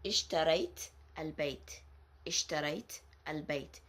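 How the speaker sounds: "ishtarayt al-bayt" said slowly, final t still crisp; slow sukoon form. Shown as a demonstration. Teacher slowly modelling the sukoon ending. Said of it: "if you put a sukoon on ta al-maftuha".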